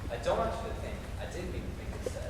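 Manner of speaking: whispered plea. Acted. Confession whispered.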